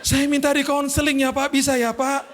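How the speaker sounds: high, tearful pleading; imitated crying. Driver begs the pastor for counseling, mock tearful. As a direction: plead like a weepy driver, lightly acted. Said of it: "Eh, dia nangis".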